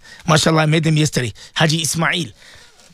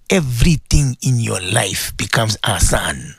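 ordinary delivery

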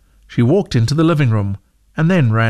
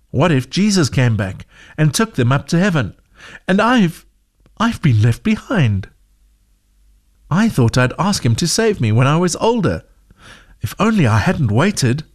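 put-on lightly raised, anxious young girl voice; a hint of a scared child worrying aloud; a girl mildly fretting she was left behind; frightened girl; 4 semitones higher than usual. Zoe fears being left behind.

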